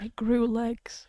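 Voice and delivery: slow voiceless joke; whispering. Real, not acted. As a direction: whisper it slowly.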